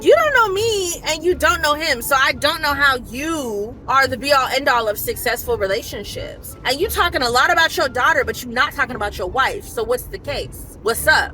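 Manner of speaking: indignant telling-off, acted out; turned-up comeback. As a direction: fire back at him, easing into a challenge. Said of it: "I kinda turned up on him".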